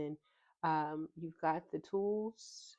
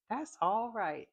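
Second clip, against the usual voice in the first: louder, higher, pleased imitation of grandpa; proud grandpa; 4 semitones higher, 5 dB louder, slower than usual. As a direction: mimic a grandpa cheering a good test grade. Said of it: "he had different inflections for".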